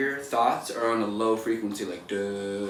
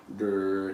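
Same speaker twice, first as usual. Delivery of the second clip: low grumble; 3 semitones lower than usual. Shown as a demonstration. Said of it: "changed the nature of my frequency".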